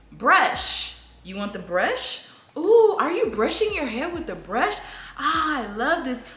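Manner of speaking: high, sing-song parent talk; narrating to toddler. Shown as a demonstration. Class-taught talk to toddler about brush, high sing-song. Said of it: "they did say to".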